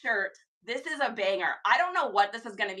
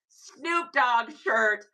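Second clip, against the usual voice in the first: building hype; much slower than usual. Real, not acted. Hyping a thrift find.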